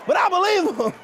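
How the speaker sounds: 重读I; stress on I. Shown as a demonstration. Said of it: "all jokes aside".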